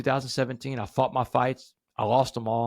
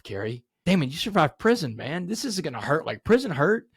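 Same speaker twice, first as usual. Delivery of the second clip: self pep talk; 4 semitones higher than usual. Retold or imitated. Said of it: "I reminded myself".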